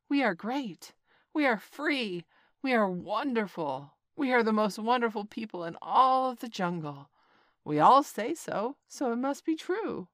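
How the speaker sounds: loud, high boastful monkey chant; monkeys shouting. A narrator's reading. Monkeys bragging to Mowgli, loud and high. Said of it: "they shouted".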